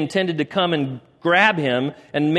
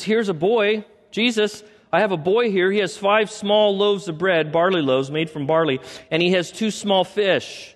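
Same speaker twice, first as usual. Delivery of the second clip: eager Andrew; 5 semitones higher than usual. Acted. Andrew eagerly reports the boy.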